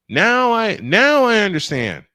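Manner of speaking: high, loud dawning realization; the penny finally drops; sudden understanding. Real, not acted. After the riddle is explained, a loud relieved aha.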